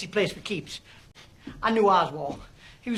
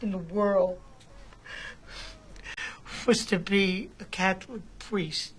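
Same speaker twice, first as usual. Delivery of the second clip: slow, softer, defeated confession; quiet despair; 3 semitones lower, 6 dB quieter than usual. Acted. Defrocked priest confessing to the DA, slow broken quiet. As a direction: let each phrase fall away in grief. Broken man recalls lost vocation.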